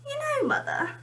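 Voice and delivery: put-on breathy child's whisper, high; Benny whispering. Small Benny whispers to his mother.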